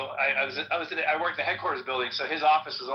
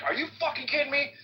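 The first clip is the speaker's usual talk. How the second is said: incredulous outrage; 12 semitones higher than usual. Retold or imitated. First sergeant enraged by story.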